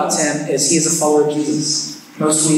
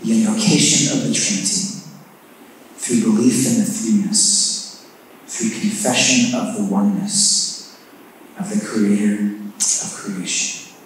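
prayer voice; 4 semitones lower than usual. Acted. Opening prayer.

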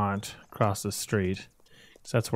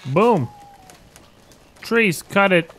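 excited; 9 semitones higher, 6 dB louder, slower than usual. Real, not acted. Tree falls in game.

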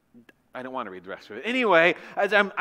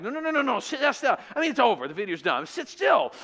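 mock exasperated plea; 5 semitones higher than usual. Yelling at the tornado filmer.

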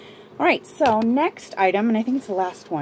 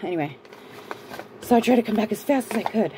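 panting between words; breathless after running; out of breath; faster than usual. Real, not acted. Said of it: "I'm out of breath".

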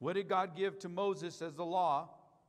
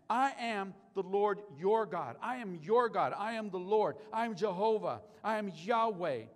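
thundering proclamation of God; 2 semitones higher, 7 dB louder than usual. Acted. Preacher to church, voicing God declaring his names, booming. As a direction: proclaim it like God announcing his own name.

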